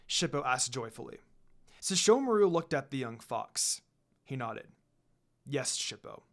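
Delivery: steady storytelling read of a fanfic; story narration. A narrator's reading. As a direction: read the chapter like a narrator to listeners. Reads fanfic story aloud.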